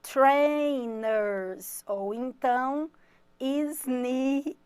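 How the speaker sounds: trainers then sneakers, drawn out and rising; slow teacher pronunciation; English word demo. Shown as a demonstration. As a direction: model the words for the class. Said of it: "é".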